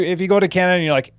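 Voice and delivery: ordinary delivery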